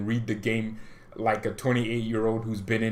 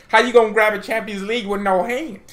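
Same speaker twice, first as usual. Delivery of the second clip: incredulous mock; 8 semitones higher, 6 dB louder than usual. Real, not acted. Mocking the club's planning.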